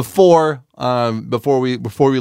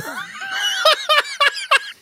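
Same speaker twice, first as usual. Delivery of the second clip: high-pitched howling laugh; cracking up at his own tree story, shrieking with laughter; 3 dB quieter than usual. Real, not acted. Howling laugh at his own story.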